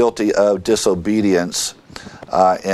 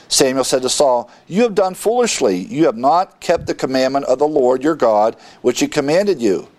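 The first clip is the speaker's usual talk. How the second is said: higher-pitched, declaimed Bible reading; scripture reading; 4 semitones higher, faster than usual. Acted. Samuel rebukes Saul in the passage, declaimed scripture reading. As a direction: read the verses out with lifted pitch.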